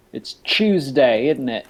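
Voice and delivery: put-on slow, lightly done British accent; Prince Harry, British accent. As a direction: draw it out with a hint of British. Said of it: "Here's my, uh, here's my, uh, Prince Harry".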